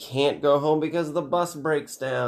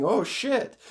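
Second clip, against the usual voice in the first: mock screaming; 12 semitones higher than usual. Kids running from captured bus, high half-voiced scream. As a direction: squeal it like startled kids. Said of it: "they're, like, screaming".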